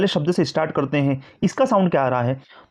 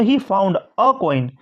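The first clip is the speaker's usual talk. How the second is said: slow dictation pace; slow example reading; much slower than usual. Shown as a demonstration. Teacher reading the corrected sentence slowly. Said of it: "उसने ढूंढा एक coin".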